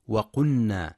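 وقلنا with the ل merged into the ن, like وقنّا; wrong merged l. Shown as a demonstration. Teacher shows the mistaken merged ل in وقلنا. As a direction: blend the ل of وقلنا into a doubled ن. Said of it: "بإدغام اللام في النون".

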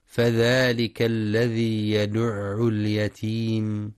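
slow, measured tajweed recitation; Quran recitation. Shown as a demonstration. Teacher reciting the verses for students, slow tajweed chant. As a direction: recite each verse slowly, holding the vowels.

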